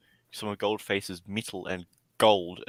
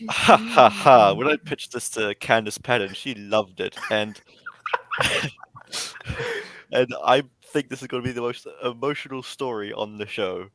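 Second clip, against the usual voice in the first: loud hammy showrunner laugh; booming mock showrunner; Eric Wallace impression; 5 dB louder than usual. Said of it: "I didn't sound like Eric Wallace".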